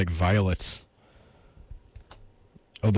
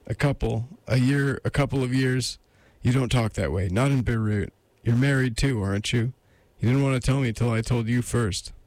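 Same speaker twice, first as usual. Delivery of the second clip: slightly raised lady voice; woman on the phone; 4 semitones higher than usual. Acted. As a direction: voice the woman, pressing him.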